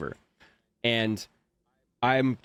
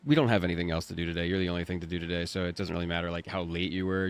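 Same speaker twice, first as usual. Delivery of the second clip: relaxed engineer; 6 semitones lower, 4 dB quieter, faster than usual. Retold or imitated.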